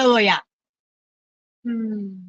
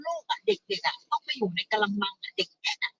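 very soft, barely carrying; too quiet to hear; 10 dB quieter than usual. Real, not acted. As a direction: speak softly, well under your usual volume. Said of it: "พูดดังๆเลย พูดดังๆ".

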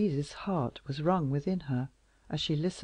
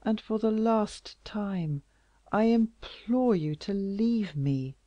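slow, earnest voiced pleading; slow plea; 5 semitones higher, slower than usual. Louise begging the king once more, slow. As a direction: plead slowly and firmly. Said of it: "Once more".

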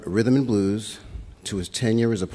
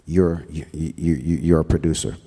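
imitating Jerry; 5 semitones lower than usual. Jerry telling him in his office, lower mock-solemn voice. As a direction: lower put-on Jerry voice, measured and weighty. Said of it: "and he said".

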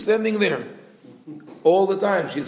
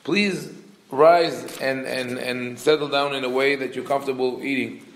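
gently stretched, slightly raised polite plea; polite request. Retold or imitated. Son inviting his father to rise and eat, very polite. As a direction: retell it as a courteous invitation. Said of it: "he also speaks very politely".

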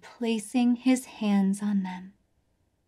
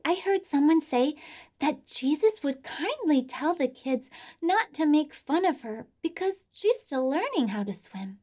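puppet voice; 4 semitones higher than usual. Acted. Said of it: "my friend Dottie".

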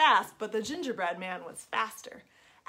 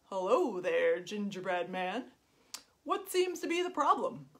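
sly fox. Acted. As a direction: purr it slyly. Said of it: "the fox said".

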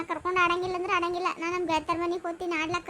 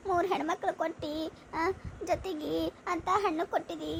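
sorrowful lament. Acted. Mother alone praying over her children's hardship, sorrowful. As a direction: lament your hard lot, close to tears.

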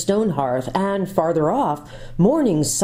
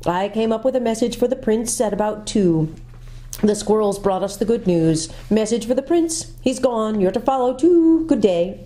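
a hint of a higher owl voice; brisk owl delivering a message; lightly voiced owl; 5 semitones higher than usual. Glimfeather giving the message to Jill, lightly higher owl voice.

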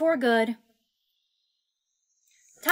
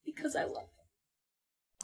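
ghostly breathless whisper; 3 semitones higher, 14 dB quieter, slower than usual. Acted.

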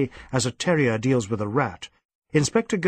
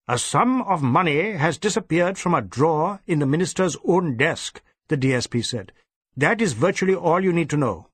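brisk boss; 4 semitones higher than usual. Acted. DSP voiced.

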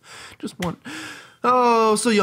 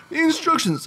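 put-on old lady voice; 12 semitones higher than usual. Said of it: "that's not her voice".

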